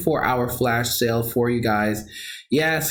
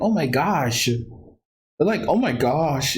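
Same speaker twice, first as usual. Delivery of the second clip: New York accent. Real, not acted. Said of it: "that's when you hear my New York accent".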